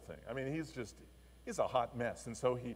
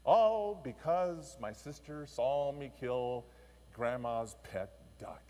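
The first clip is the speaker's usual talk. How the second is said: put-on much higher, louder fed-up kid whine; boy griping about doing his sister's chores; whiny complaint; 6 semitones higher, 7 dB louder than usual. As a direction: complain like a worn-out little boy. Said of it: "He, he's just saying".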